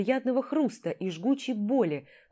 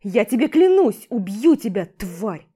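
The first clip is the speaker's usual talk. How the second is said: furious yell; 9 dB louder than usual. Acted. Rival swears revenge while being pulled away, furious yell. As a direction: bellow the threat, struggling free. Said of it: "орал он мне, вырываясь".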